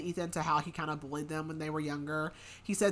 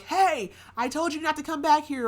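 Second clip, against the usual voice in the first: higher, louder mock telling-off; retold scolding call; 9 semitones higher, 7 dB louder than usual. Man catches kids trespassing, scolding call.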